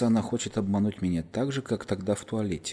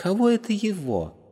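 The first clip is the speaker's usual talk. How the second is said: very high, loud, scoffing, mocking disbelief; 12 semitones higher, 5 dB louder than usual. The girl questions the narrator's answer, mocking and incredulous. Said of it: "с издевкой и недоверием переспросила девушка".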